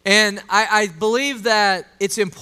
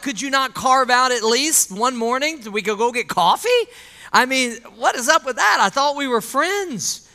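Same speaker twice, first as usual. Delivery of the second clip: mock-indignant complaint, higher pitched; hurt indignation; 5 semitones higher than usual. Hurt friend complaining to an absent visitor, acted indignation. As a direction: protest like a slighted friend, incredulous.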